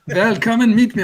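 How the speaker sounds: laughing fake German accent. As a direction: slide into a hammed-up German accent. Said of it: "I'm doing a German".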